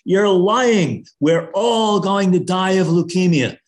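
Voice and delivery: loud, high outburst from the back of the room; angry shout. Retold or imitated. Neighbor at a public meeting yelling at the expert, angry shout. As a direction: shout the accusation up at the stage, furious.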